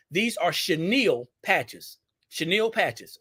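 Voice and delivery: "chenille" said slowly as shuh-NEEL; careful pronunciation. Shown as a demonstration. Correcting herself for viewers, careful shuh-NEEL. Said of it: "very careful how I pronounce".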